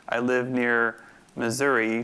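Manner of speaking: slow, with the middle of "Missouri" stressed: mi-ZOU-ri; slow demo with "Missouri" stressed on its middle syllable. Shown as a demonstration. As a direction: lean into the second syllable of "Missouri", unstressed-stressed-unstressed. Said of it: "three syllables with the middle syllable stressed".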